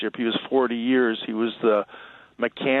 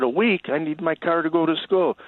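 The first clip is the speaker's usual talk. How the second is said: retold shocked protest; 7 semitones higher than usual. Kid shocked at week-long repair.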